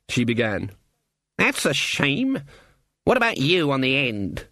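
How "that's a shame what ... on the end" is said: put-on dry old witch voice. Granny voiced.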